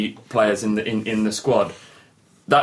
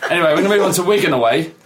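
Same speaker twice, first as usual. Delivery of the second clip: laughing; 7 semitones higher, 4 dB louder, faster than usual. Real, not acted. Laughing, rushing on.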